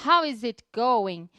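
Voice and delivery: slow, careful "How is it going?"; pronunciation demo. Shown as a demonstration. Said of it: "algumas dicas de pronúncia".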